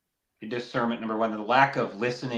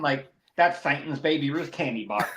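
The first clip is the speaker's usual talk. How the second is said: put-on Southern accent; 2 semitones higher than usual. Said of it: "you got the accent down".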